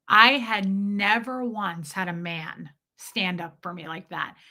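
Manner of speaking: ordinary talk, nothing marked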